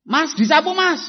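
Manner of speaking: high, loud call across the house; father bellowing at his son from a distance; shouted order. Acted. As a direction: yell the chore at the son from far away.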